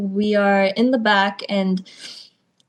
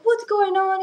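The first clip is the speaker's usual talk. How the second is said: higher mock angry demand; retold yell; 10 semitones higher than usual. Mentor storming in on a late wrestler, higher mock yell. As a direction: snap it like a mentor who caught you late. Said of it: "He starts yelling".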